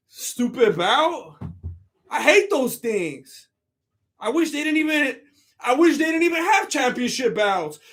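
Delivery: a lightly put-on sulky champion; Usman. Streamer playing Usman grumbling about belts, mock-sulky impression. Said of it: "That was actual footage of, um, of Usman".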